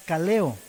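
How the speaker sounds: "kaleo" said ka-LE-o, stress on the E; Greek word kaleo. Shown as a demonstration. Preacher teaching the congregation a Greek word, "kaleo" stressed on the E. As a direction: put the weight on the E of "kaleo". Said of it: "acento en la E".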